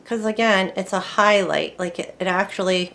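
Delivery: talking around a paintbrush in the mouth; words slurred by something held in the teeth; brush in mouth. Real, not acted. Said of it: "have my brush in my mouth".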